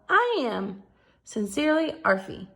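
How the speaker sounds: bright, eager pup pleading for a home; eager dog voice. Acted. Arfie writing to the Yellow House family, eager and hopeful. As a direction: read it like a hopeful little dog.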